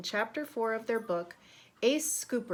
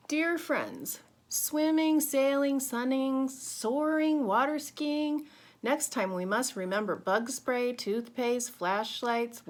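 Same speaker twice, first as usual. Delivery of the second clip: excited postcard list; 3 semitones higher, 6 dB louder, slower than usual. Acted. Reading commas' postcard aloud.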